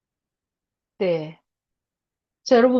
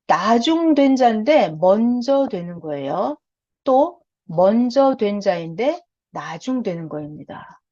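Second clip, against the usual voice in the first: slow explanation; 2 semitones lower, slower than usual. Shown as a demonstration. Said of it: "자, 다시".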